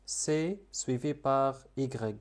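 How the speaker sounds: very slow, spelled-out rule; slow dictation. Shown as a demonstration. Teacher dictating the rule slowly to learners. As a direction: lay out each letter slowly.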